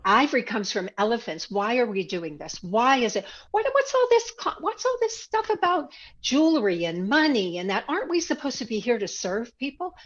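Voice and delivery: retelling a heated challenge, half-performed; mock outraged protest. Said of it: "I remember specifically".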